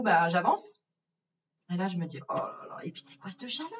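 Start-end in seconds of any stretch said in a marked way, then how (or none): 2.3-3.7 whispered thought. Retold or imitated. Thinking to herself on arrival.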